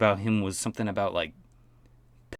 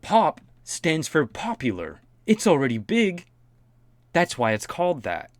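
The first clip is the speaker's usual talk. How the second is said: exasperated; 6 semitones higher, 3 dB louder than usual. Real, not acted. Exasperated explaining the obvious.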